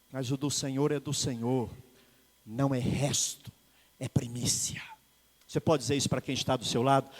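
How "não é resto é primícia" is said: whispered, intimate punchline; whispered point. Real, not acted. Pastor telling the church what God deserves, whispered. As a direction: breathe it like a secret. Pastor hushes key word.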